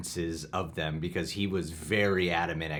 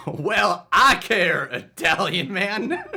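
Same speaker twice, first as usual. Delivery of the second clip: higher, bossy security guard; 11 semitones higher, 8 dB louder than usual. Acted. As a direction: wave the line through like a bored guard. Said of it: "I'll play Alfred".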